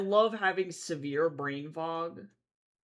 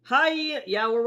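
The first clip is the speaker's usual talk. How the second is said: excited; 7 semitones higher, 8 dB louder, slower than usual. Real, not acted. Greeting a visitor loudly.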